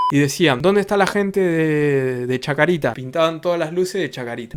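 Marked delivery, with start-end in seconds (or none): 0.6-2.9 club announcer. Retold or imitated. DJ calling out to crowd.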